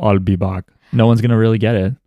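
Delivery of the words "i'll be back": put-on low Austrian-accented catchphrase; mock Austrian accent, pitched down. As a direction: say it with an Austrian accent, open "ah" in back. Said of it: "say in an Austrian accent".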